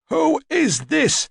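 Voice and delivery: put-on high, slow, rasping old woman's demand; sharp demand. A narrator's reading. Old woman confronting an unexpected visitor, sharply demanding. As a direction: demand it imperiously, drawn out and high. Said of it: "then demanded sharply".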